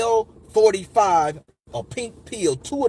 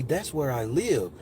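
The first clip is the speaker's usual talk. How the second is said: slow, lower, gentle; smooth woman's voice; 4 semitones lower, 4 dB quieter, slower than usual. Retold or imitated. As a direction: imitate a soothing woman confiding slowly. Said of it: "it was just the smoothest".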